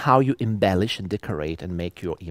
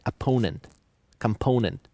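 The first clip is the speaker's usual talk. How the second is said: opponent and component, both stressed on PO; natural-speed "opponent", "component", stress on second syllable. Shown as a demonstration. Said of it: "You stress the second one".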